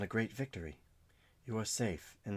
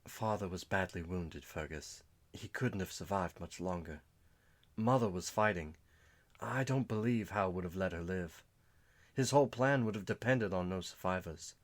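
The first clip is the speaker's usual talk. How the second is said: grieving sister; 2 semitones higher than usual. Acted. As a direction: deliver the hard truth gently.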